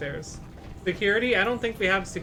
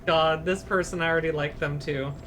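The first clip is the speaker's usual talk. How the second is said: lightly voiced patients and staff, raised pitch; voiced game characters; 6 semitones higher than usual. Streamer reading game dialogue aloud, lightly character-voiced. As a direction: read each hospital character in a higher put-on voice.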